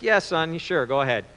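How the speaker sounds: a touch of weariness, voice dropping; tired father. Acted. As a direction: lightly play a worn-out dad. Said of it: "you know, he's tired".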